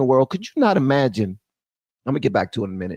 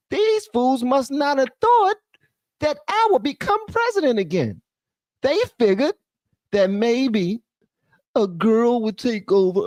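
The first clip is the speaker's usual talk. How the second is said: pitched up, mocking the Houthis' thinking; a hint of a cocky militant, higher voice; mock Houthi boasting; 4 semitones higher than usual. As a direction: lightly voice the Houthis higher and smug-sounding. Mocking what the Houthis thought.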